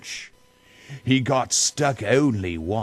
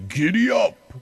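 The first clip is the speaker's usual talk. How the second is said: much higher "Giddy up!"; Grinch urging; 13 semitones higher, 4 dB louder, faster than usual. Acted. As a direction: spur the dog on like the Grinch. Grinch urging dog Max.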